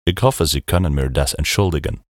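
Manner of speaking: put-on German spoken with a thick American accent; American tourist speaking German. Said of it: "ich habe eine starke amerikanische Akzent". (amerikanischer Akzent im Deutschen)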